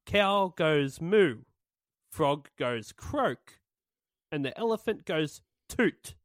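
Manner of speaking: deadpan lyric reading. Shown as a demonstration. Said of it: "the speaker read the lyrics".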